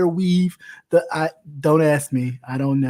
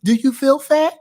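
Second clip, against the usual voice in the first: higher, fed-up sass at a friend's makeup questions; exasperated friend; 6 semitones higher than usual. Retold or imitated. To her girlfriends asking about makeup, exasperated and higher. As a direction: roll your eyes and tell her off. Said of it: "And I was like".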